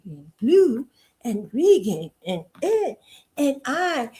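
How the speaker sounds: slow, lightly voiced unconvinced singer; mock singer speech. Mocking a singer's speech, slow half-hearted recital. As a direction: drag it out like you don't mean a word. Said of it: "She like".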